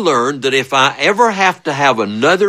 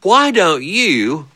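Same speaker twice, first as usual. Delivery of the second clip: imitated sarcastic dad; 5 semitones higher, slower than usual. Father's sarcastic retort, acted slowly.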